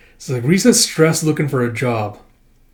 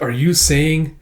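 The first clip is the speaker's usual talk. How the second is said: thrilled; 10 semitones higher, 8 dB louder than usual. Acted. Akane thrilled by his praise.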